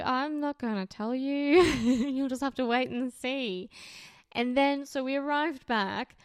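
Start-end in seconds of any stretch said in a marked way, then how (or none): 0.0-3.7 sheepish laughing. Retold or imitated. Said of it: "he was just very sheepish".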